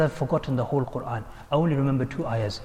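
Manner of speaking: soft, understated confession; subdued admission. Retold or imitated. Shaykh confessing he forgot the Quran, subdued. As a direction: admit the loss quietly. Broken Shaykh admits his loss.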